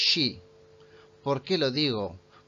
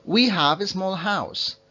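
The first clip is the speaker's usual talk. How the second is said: slow; 5 semitones higher, 5 dB louder, slower than usual. Shown as a demonstration. Teacher reads example sentence slowly.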